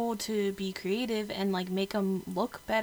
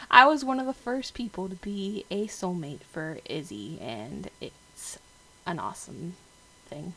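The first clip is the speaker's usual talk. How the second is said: put-on country accent; 6 dB louder than usual. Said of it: "I'm talking in a country accent".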